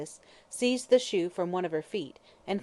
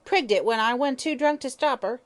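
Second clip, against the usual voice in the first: louder, higher indignant hag; indignant shriek; 6 semitones higher, 6 dB louder than usual. Acted. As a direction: complain it with outrage. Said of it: "she shrieked indignantly".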